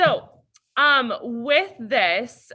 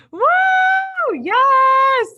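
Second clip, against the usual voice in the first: mock cheer; 11 dB louder than usual. Mock cheer about research paper.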